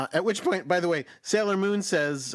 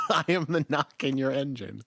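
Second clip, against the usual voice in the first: laughing. Retold or imitated. Quoting line while laughing.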